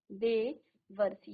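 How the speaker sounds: देवर्षि stretched out, syllable by syllable; slow dictation. Shown as a demonstration. Teacher dictating the answer slowly. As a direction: draw out देवर्षि so they can write it. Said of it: "आपने यहाँ पर क्या लिखा".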